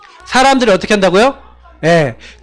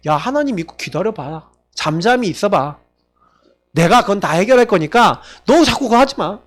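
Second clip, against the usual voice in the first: reassuring God. Acted. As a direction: soothe the worried believer gently.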